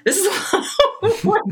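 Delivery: high-pitched, quick, laughed-out protest; laughing complaint. Retold or imitated. Retelling own complaint, laughing.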